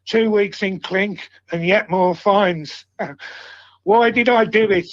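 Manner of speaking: measured verse with pauses between lines; poem recitation. Acted. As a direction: recite a homemade football poem in steady rhythm. Reads own poem to friends.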